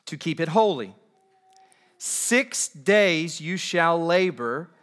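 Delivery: weighty, projected reading with long pauses; slow scripture reading. Real, not acted. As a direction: read the verse out slowly, phrase by phrase. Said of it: "I want to read these slowly".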